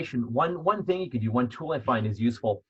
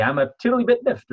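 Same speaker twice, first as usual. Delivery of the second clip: much higher, louder, mock-dainty lilt; playful understatement; 9 semitones higher, 6 dB louder than usual. Shown as a demonstration. Coach repeating the funny reframe, high and playful. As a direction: tease the feeling away, sing-song. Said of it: "change it and say".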